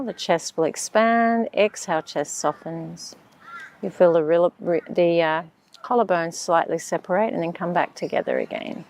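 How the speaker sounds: calm, unhurried meditation voice; measured breathing-exercise instructions; guided meditation. Acted.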